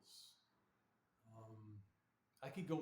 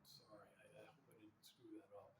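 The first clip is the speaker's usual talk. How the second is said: whisper; 3 semitones lower, 13 dB quieter than usual. Real, not acted. Muttered apology mid-lecture.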